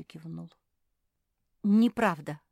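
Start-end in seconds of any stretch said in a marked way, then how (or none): 1.6-2.4 a sharp, loud cut-off; cutting retort. Acted. Hortense rejecting the claim, a curt loud retort. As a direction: snap it shut, loud. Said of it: "отрезала Гортензия".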